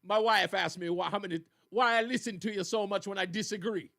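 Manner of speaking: lightly imitated Jamaican accent; retold quote in a mild Jamaican accent. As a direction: do a caller with a hint of Jamaican accent. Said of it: "with his Jamaican accent".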